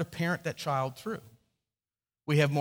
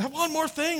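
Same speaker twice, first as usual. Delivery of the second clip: mock plaintive; 10 semitones higher, slower than usual. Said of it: "when they're sitting there and say".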